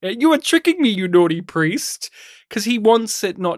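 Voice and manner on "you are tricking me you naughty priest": teasing accusation pitched higher; playful mock accusation, higher. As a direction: accuse him jokingly, pitch up. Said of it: "I felt like such a fool".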